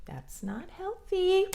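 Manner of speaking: that's not healthy squeaked up high; mock high emphatic. Shown as a demonstration.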